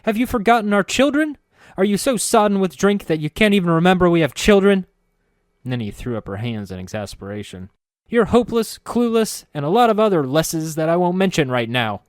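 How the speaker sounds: very high, loud hammed-up tirade; a wife at the end of her rope, overplayed; shrill mock fury. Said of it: "Nenny's fury rose another notch".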